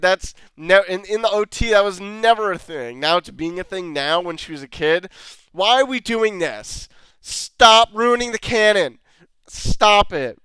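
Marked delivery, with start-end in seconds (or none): 5.5-10.4 louder, pleading rant; louder exasperated plea. Real, not acted. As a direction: beg them to stop ruining it. Pleading rant about the canon.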